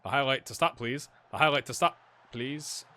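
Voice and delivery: mock-polite plea to the game, building; insistent repeated request. Real, not acted. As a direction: repeat it, pushing harder every time. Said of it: "I don't like how this highlight's continuing".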